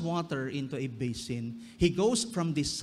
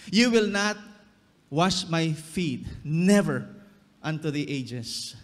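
stubborn refusal. Acted. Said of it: "And it is our problem".

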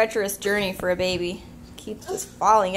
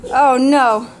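alarmed cry; 3 semitones higher, 12 dB louder than usual. Real, not acted. Baby falls, alarmed cry.

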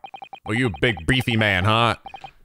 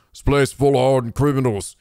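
prison governor in a lightly put-on Irish accent. Shown as a demonstration. Gamer testing an Irish accent on the governor's line. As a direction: try the line again in an Irish brogue. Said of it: "this is Irish".

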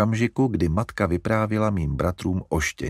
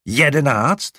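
louder, higher disbelieving Jedenáct?; aghast; 6 semitones higher, 6 dB louder, slower than usual. A narrator's reading. Larry repeating the number to mother, aghast. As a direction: repeat Jedenáct? in horror, rising. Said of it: "opakoval zděšeně".

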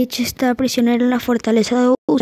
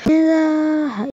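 startled shout; 5 semitones higher than usual. Real, not acted. Sudden fail in game.

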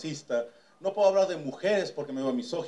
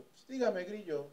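a hint of Mexico City swagger; Grillo's answer; 2 semitones higher, 7 dB quieter, slower than usual. Bodyguard answering his job interview, lightly voiced. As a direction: toss the nickname off casually. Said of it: "con su acento del D F".

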